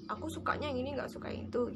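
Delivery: soft, half-whispered quoting of a picky learner; hushed quote. Retold or imitated. Teacher quoting a picky learner, half-whispered. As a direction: murmur it like a private preference. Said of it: "gitu ya".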